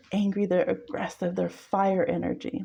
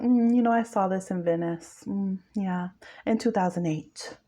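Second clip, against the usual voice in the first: sardonic. Retold or imitated. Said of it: "a very sardonic kind of energy".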